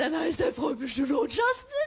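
high, loud, teasing, mocking put-on voice.

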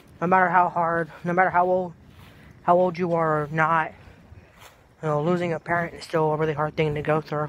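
low, heavy, depressed-sounding voice. Talking about a kid losing his mom, speaking in a low, depressed voice. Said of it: "Why am I talking so low?".

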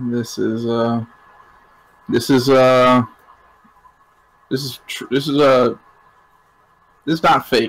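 charming voice, halting and stumbling. Answering a character who says the license could be faked: best charming voice. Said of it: "I put on my best charming voice".

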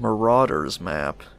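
usual speaking voice

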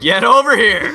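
mock villain growl, high and loud.

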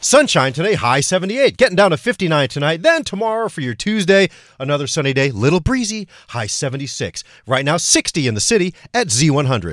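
loud, hardcore radio announcer delivery. Giving the weather forecast for Z100, in a hardcore radio announcer voice. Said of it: "Your announcer voice is hardcore".

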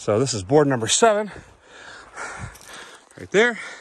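winded, out of breath. After walking up a hill to a survey board, out of breath. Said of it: "I'm all out of breath".

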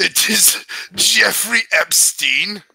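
creature-like alien voice. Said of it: "I do the fucking Watto voice".

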